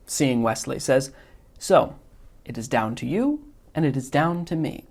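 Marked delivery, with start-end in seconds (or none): 1.6-4.9 lightly voiced smug schemer, a little higher; a hint of a fussy, self-satisfied villain; Wallace Shawn's Vizzini. Teacher reading Vizzini's lines to the class, mild smug imitation. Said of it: "mimicking Wallace Shawn's inflection".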